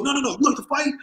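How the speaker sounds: high-pitched, pressing question; retold insistent challenge. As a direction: imitate a promoter refusing to take no.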